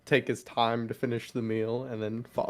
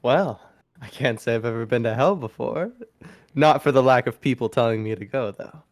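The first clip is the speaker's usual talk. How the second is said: joking; 2 semitones lower than usual. Acted. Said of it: "He's gonna joke".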